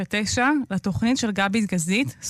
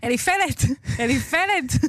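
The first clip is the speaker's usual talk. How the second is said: high, very slow, stretched-out put-on calling; 5 semitones higher than usual. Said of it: "שהוא כל היום צעקה על החתולה".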